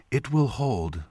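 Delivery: soft, lightly voiced serene woman; female voice. A narrator's reading. Woman answers the young man, soft female voice. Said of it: "the woman replied".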